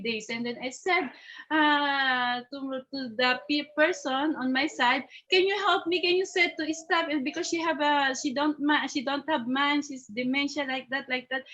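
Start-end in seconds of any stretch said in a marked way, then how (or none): 5.3-7.1 higher-pitched appeal for help; retold plea. Caregiver asking a passer-by for help, retold plea. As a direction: re-enact pleading with a stranger.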